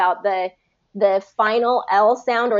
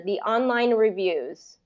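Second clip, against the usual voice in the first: slow demo; 3 dB quieter, slower than usual. Shown as a demonstration. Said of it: "try and do it a little bit faster".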